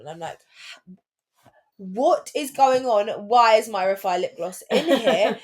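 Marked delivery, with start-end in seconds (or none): 1.8-5.4 slow, louder indignant demand; mock-appalled, leaning on each word; exasperated outrage. Daughter retelling finding her chewed lip gloss, exasperated outrage.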